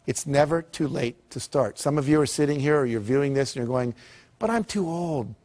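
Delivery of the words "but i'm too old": higher, lightly put-on doubter's voice; mock self-doubting objection. Audience member objecting to starting late, mock self-doubt. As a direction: imitate someone making an excuse.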